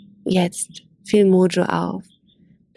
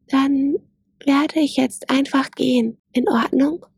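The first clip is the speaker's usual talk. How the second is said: cautious; 6 semitones higher than usual. Acted. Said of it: "fragte es vorsichtig".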